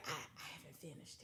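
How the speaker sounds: soft mumbled mock excuse; mumbling. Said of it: "He's like".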